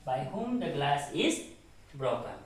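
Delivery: slow deliberate sentence read-out; slow read-back. Shown as a demonstration. Teacher reading the finished sentence slowly. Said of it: "reading the sentence back".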